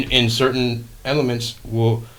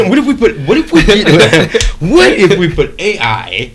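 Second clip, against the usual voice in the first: high laughing voice; cracking up through the words; 7 semitones higher, 8 dB louder, slower than usual. Real, not acted. Laughing while mocking friend's idea.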